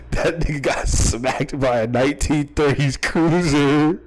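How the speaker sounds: words through rising laughter; laughing. Real, not acted. Cracking himself up at joke.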